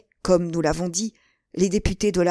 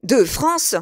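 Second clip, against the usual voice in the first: high, rising cry; startled exclamation; 6 semitones higher, 4 dB louder than usual. A narrator's reading. Buckingham forgets everything at the letter, exclaiming high. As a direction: exclaim at unexpected news. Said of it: "s'écria Buckingham".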